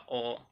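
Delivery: ओ said short and clipped off; short vowel demo. Shown as a demonstration. Teacher demos the short ओ to students, quick and short. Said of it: "जैसे ओ बोलना होगा".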